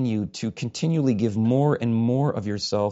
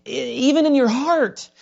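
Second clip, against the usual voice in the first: high, raised preacher's exhortation; hollering; 13 semitones higher, 7 dB louder than usual. Real, not acted. Preacher warning his flock not to crab, hollering. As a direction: holler it out at the congregation. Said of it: "sound like I'm hollering at you".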